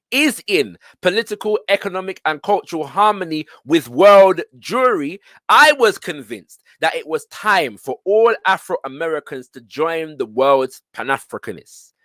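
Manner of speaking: declaimed quotation; reading aloud. Acted. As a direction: read the passage out to a class, stressing key words. Resumes reading autobiography aloud.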